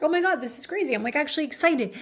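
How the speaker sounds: quick, giddy retelling; retold excitement. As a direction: imitate someone suddenly getting excited. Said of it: "she started to get excited".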